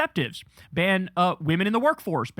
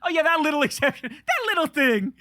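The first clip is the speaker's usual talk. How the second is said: higher sarcastic mock shrug; 7 semitones higher than usual. Real, not acted. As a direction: drag it out, playing it down with sarcasm. Mocking guest's January sixth aside.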